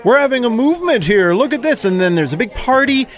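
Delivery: righteous outrage, building as he justifies himself; indignant Pharisee rant. Acted. Jeff the Pharisee complains to his buddy Mike, indignant and preachy. Pharisee rants about Jesus.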